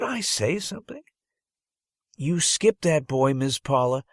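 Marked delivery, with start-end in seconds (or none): 2.2-4.0 put-on high, loud little-girl voice; blurted. Little girl telling the teacher she skipped a boy, blurting. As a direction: blurt it out eagerly. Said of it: "blurted a girl".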